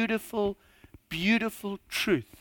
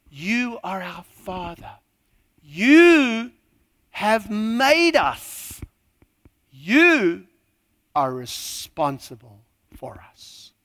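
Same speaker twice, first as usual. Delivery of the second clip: emphatic then whispered verse; building emphatic reading; 5 dB louder, slower than usual. Acted. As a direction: swell on each "You", then sink to a whisper.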